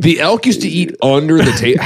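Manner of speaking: disbelieving echo, stress on used; incredulous repeat. Real, not acted. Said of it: "How big is the table".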